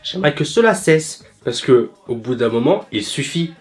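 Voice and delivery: lightly stilted, recited complaint; robotic bad acting. Pupil reports her French teacher to the head, mildly robotic. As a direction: imitate a wooden actress reciting lines. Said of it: "la façon robotique dont elle dit ça".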